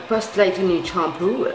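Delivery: slow English product name in a French accent. Real, not acted. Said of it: "Excuse-moi pour mon accent". (anglais prononcé lentement avec l'accent français)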